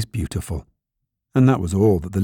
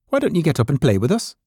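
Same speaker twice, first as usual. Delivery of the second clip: higher, quick rabbit voice; wild rabbit; 7 semitones higher, faster than usual. A narrator's reading. Wild rabbit inviting toy rabbit to play, high character voice.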